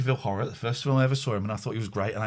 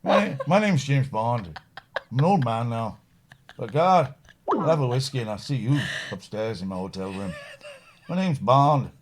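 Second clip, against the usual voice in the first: Bond impression; 3 semitones lower than usual. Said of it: "That's not a bad impression".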